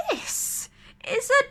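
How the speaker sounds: know-it-all seagull. Acted. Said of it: "explained Guttle".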